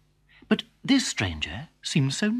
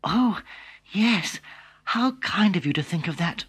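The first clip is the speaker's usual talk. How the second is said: put-on higher girlish voice; a naive girl delighted; lightly voiced girl; little girl; 6 semitones higher than usual. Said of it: "replied Little Red Riding Hood".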